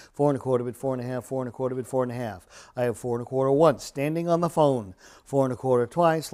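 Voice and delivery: rhythmic auction chant; auctioneer. Real, not acted. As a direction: rattle off the bids in a steady chant. Live auction bid calling.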